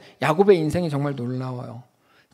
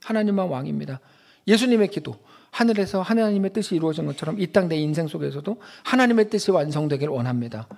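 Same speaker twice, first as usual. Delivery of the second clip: usual speaking voice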